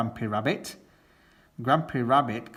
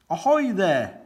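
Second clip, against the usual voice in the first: louder, higher sailor's hail; shouted hail; 7 semitones higher, 6 dB louder than usual. Acted. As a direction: call across the water. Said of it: "shouts Grandpa Pig".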